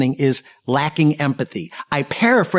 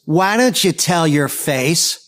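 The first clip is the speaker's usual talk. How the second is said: put-on cheeky kid; slower than usual. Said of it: "Johnny says".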